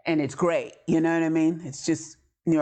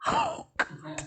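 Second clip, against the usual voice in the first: dismayed gasp; 5 dB quieter than usual. Retold or imitated. Dread at mother's voice.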